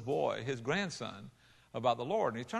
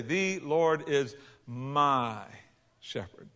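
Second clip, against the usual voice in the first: slow recital; much slower than usual. Retold or imitated. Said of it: "He taught his grandson to say".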